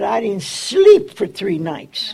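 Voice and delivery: laughing. Retold or imitated. Retold contractor complaint.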